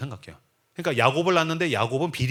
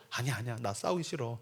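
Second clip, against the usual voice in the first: much softer, shrinking back; timid refusal; 6 semitones lower, 11 dB quieter than usual. Retold or imitated. Isaac softly refusing his servant's call to fight. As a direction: decline meekly, almost under the breath.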